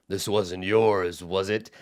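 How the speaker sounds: slow, quiet cyclops taunt; understated giant menace; menacing giant. Acted. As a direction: tease before eating.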